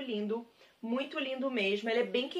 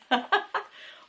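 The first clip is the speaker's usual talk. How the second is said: bright laugh; 8 semitones higher than usual. Real, not acted. Jokes about cover photo.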